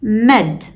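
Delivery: "med" said alone as one syllable; isolated syllable. Shown as a demonstration. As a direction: set "med" apart after a small pause. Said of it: "The third syllable is".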